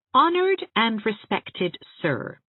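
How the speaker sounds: put-on playfully grand, old-world formality; mock-formal old letter opening. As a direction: read it like a stiff old-fashioned love letter. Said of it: "That is how a love letter of Aunt Shatty's grandmother began".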